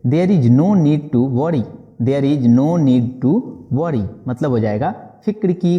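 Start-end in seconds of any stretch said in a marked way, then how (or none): 0.1-1.6 very slow, word by word; slow model sentence. Shown as a demonstration. Teacher modelling the English phrase slowly for students. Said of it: "बोलेंगे". 2.0-4.1 slow restatement before explaining; slow repeat. Shown as a demonstration. Teacher repeating the phrase slowly before translating. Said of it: "बोलेंगे".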